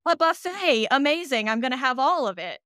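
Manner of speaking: thrilled to find so many fiction shows to dig into; delighted buffet glee. Retold or imitated. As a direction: gush like a kid facing a buffet. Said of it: "I look at fiction podcasts and go".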